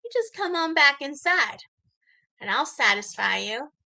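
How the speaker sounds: lightly voiced sleazy flirt; mock come-on, lightly acted; self-styled ladies' man. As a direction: imitate a would-be seducer, with teasing pauses. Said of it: "he is God's gift to women".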